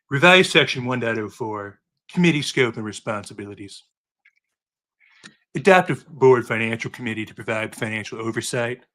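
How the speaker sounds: a hint of Trump ad-libbing insults into the report; Trump impression. Cohost reads the report recommendations as Trump, with only a light impression. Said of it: "Do I wanna attempt Trump voice?".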